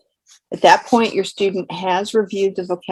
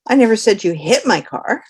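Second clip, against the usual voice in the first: never rising and emphasised; the stress falls on never; 3 semitones higher, 3 dB louder than usual. Shown as a demonstration. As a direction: lean on never. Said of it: "For example".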